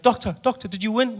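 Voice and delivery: high, eager mock plea; hammed-up anxious relative; eager questioning. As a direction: call hopefully to the doctor. Voices anxious relatives asking doctor.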